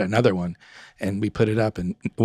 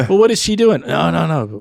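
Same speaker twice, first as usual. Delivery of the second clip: retold alarm; 6 semitones higher, 6 dB louder than usual.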